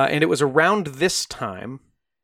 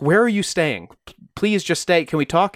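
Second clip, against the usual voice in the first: pleading wife; 4 semitones higher than usual. Retold or imitated. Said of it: "Marion would ask".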